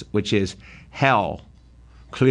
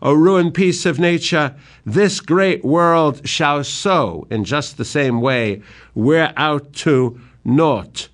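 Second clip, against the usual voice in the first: blinded father lamenting aloud; despairing lament; 4 semitones higher, slower than usual. Acted. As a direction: mourn the ruin of the world. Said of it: "in total despair".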